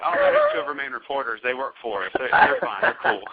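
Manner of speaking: loud, breezy boasting; excited bluff. Retold or imitated. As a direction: brush it off big and cocky. Bluffing about the reporters.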